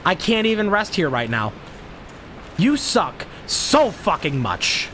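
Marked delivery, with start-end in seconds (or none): 2.6-4.9 slow, seething insult; frustrated snarl. Real, not acted. Gamer seething at a skeleton, slow and bitter. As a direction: drag it out at the game enemy.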